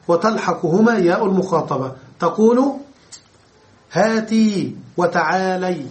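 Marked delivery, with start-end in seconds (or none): 3.9-4.7 هاتي with a clear kasra under the ta, hā-ti. Shown as a demonstration. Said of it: "هاتي بكسر التاء". 5.0-5.8 وتعالي with the lam opened by fatha, ta-ʕā-la-y. Shown as a demonstration. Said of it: "وتعالي بفتح اللام".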